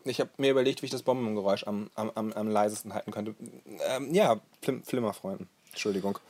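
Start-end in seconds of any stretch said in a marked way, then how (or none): 3.9-6.2 talking around a lozenge; words shaped around a cough sweet; sucking a throat lozenge. Real, not acted. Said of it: "der Sprecher lutscht einen Eukalyptusbonbon".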